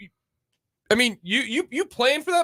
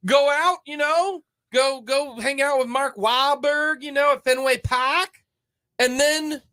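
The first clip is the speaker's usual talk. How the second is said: put-on Boston accent; 3 semitones higher than usual. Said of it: "It's my Boston accent".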